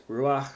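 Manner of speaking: ruach as ROO-akh; weight on the first syllable of ruach; stress on first syllable. Shown as a demonstration. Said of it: "the accent is on the first syllable".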